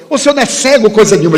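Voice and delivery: incredulous stranger. Retold or imitated. Stranger refusing to believe the speaker is blind, high and incredulous. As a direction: protest in open disbelief.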